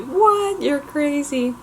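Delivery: high, loud disbelieving what; shocked. Retold or imitated. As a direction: gasp at her in loud disbelief. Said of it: "everyone was like".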